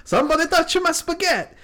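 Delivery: high-pitched mimic of a viral meme line; spaghetti meme imitation. Co-host quoting the spaghetti meme, high-pitched imitation. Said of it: "someone put that meme".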